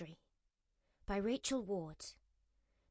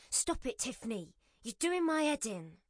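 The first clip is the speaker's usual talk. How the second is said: put-on snapping at child; 4 semitones higher, 3 dB louder than usual. Frazzled mother snaps at daughter.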